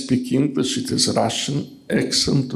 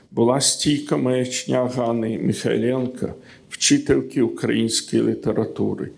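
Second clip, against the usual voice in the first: poetry reading. Acted. Reads the Ukrainian original.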